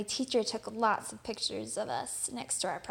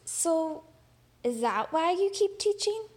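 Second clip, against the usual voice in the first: put-on a higher, hopeful child asking the teacher; eager question; 5 semitones higher than usual. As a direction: ask her, lifting with hope. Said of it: "Then I asked".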